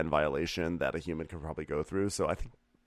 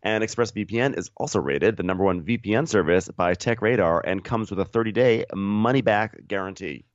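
scripted co-host sponsor read; podcast ad read; 2 semitones higher, 5 dB louder than usual. Real, not acted. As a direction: deliver the ad copy evenly and emphatically.

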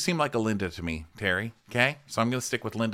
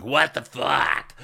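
retold exasperation; 5 semitones higher, much slower than usual. Crew member reacts getting into bed.

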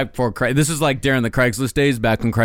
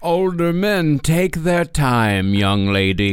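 sultry narrator; slower than usual. Pretend. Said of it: "say it in some sort of sultry tone".

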